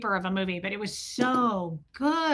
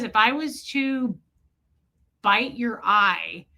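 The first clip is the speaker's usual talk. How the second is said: Ted Levine; slower than usual. Retold or imitated. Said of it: "It's the creepiest thing".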